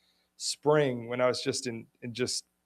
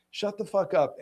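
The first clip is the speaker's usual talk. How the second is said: retold insult; 6 semitones higher than usual. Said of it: "And he's like".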